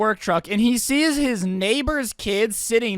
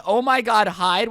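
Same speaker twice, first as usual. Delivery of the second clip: mock scream, a bit louder; retold scream; 4 dB louder, slower than usual. Mocking the thieves caught sneaking, mild retold scream. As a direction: call it out as a half-hearted scream. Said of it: "but maybe screaming".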